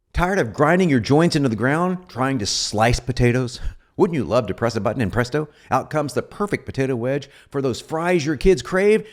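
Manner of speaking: a lightly pushed TV infomercial pitch; infomercial read. Shown as a demonstration. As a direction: sell it like a late-night infomercial host. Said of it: "this is in an infomercial vein".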